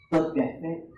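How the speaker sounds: hushed reassurance. Acted. Jesus reassures Jairus, hushed.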